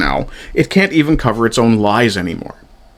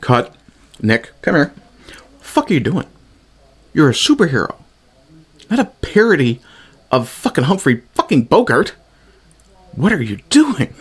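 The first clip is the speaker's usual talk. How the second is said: frustrated director; 4 semitones higher than usual. Retold or imitated. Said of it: "where's the director to go".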